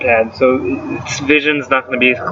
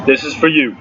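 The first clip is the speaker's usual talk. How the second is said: burping the words. Shown as a demonstration. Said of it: "Want me to burp your name again?".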